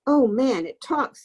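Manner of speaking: mocking scream. A narrator's reading. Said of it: "screamed Eddie".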